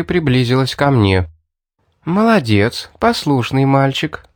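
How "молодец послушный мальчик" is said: mock praise. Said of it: "похвалила она меня".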